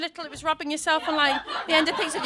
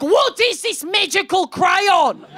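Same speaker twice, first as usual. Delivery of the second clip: mock fright; 6 semitones higher, 7 dB louder, much slower than usual. Frightened driver baffled by thrown object.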